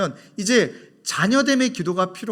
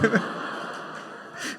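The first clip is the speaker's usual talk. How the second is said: laughter; 3 semitones higher, 8 dB quieter than usual. Real, not acted. Laughing at own joke.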